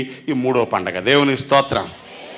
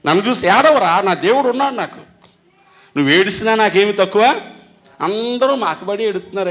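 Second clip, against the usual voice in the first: defiant boast; 4 semitones higher than usual. Pretend. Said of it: "ఏమని రాసుకోవాలా".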